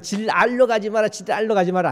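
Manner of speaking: "질 알로" run together quickly so it sounds like 지랄로; said fast. Shown as a demonstration. Preacher showing how the dialect warning slurs when said fast. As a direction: rattle "질 알로 가지 마라" off fast, slurring "질 알로" into one word. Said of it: "빨리 하면".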